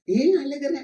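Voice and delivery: high-pitched question lifting at the end. Acted.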